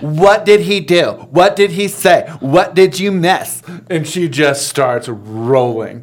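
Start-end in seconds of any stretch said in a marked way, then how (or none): 0.0-3.6 high, hammed-up fascination; mock eager interest. Husband faking interest in his wife's story, mock excitement. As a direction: beg for gossip with sarcastic over-enthusiasm. Sarcastic fake interest to wife.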